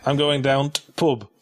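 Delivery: imitating a North of England accent, dropping the "the"; lightly done Yorkshire pub talk; a hint of northern English; mock northern English accent. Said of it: "the northern accent is where you replace the word "the".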